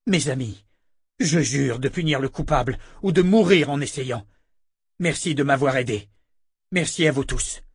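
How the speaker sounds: impassioned appeal to allies; earnest public vow. Acted. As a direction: address the villagers with firm resolve. Richard addresses the villagers, swearing.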